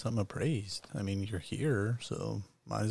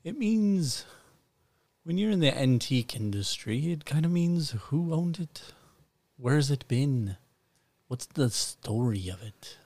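grand shopkeeper voice; 4 semitones higher, 4 dB louder, slower than usual. Acted.

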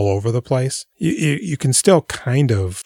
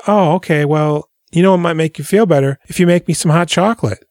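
higher, sugary fake concern; sweetly asks a favor, hammed up; a belle fishing for hot chocolate, mock sweet; mock sweet entitled lady; 6 semitones higher than usual. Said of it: "And she goes".

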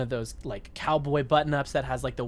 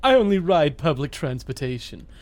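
posh rich guy. Pretend. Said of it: "character we've invented of rich guy".

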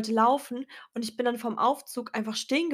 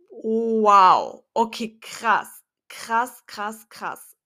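loud wow then slow fading krass; stunned by the coincidence; amazed disbelief; 7 dB louder, much slower than usual. Retold or imitated. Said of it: "Und ich dachte mir nur so".

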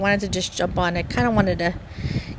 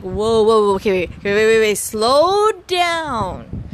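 mock stopping them; 4 dB louder than usual. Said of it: "I'm like".

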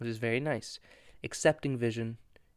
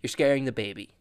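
mock scolding; 4 dB louder than usual. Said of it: "Crystal's just like".

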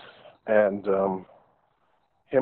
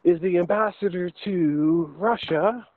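slow smug boast; 6 semitones higher, slower than usual. Pretend. Escalating boast, slowed.

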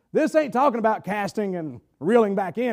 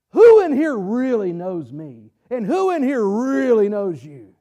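slow rhetorical question; 4 dB louder, slower than usual. Acted.

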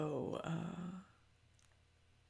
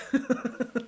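laugh; 9 semitones higher, 8 dB louder than usual. Real, not acted. Laughing at her own story.

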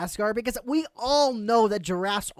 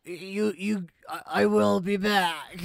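put-on Brooklyn accent. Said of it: "hard to play cards with a Brooklyn accent".

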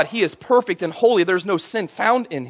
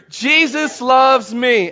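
Jesus loves me, called out stronger and slower; louder call; 4 semitones higher, much slower than usual. Shown as a demonstration. Pastor rousing church on Resurrection Sunday, louder call. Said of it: "Let's say it with me".

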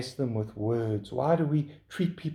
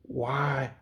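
grumbling; 2 semitones lower, much slower than usual. Retold or imitated. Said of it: "And we grumble and we complain".

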